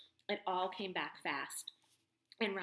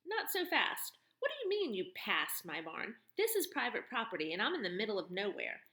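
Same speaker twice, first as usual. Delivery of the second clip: tough barn woman turning his words on him; mocking tough woman. Woman figure voice.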